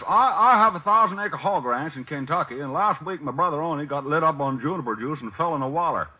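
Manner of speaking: folksy Kentucky hick act; hillbilly put-on. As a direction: play a backwoods hog farmer. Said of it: "Harold Appleknocker".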